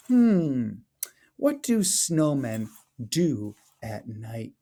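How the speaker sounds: lively storybook read-aloud, rising at the end; expressive children's story narration. Acted. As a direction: read it like a picture book to the class. Teacher reads picture book aloud.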